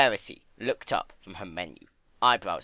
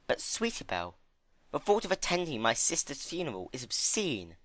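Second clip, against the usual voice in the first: sober Rarity; 5 semitones higher than usual. Acted. Rarity explaining to Fluttershy about Twilight, grave and higher. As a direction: weigh each word.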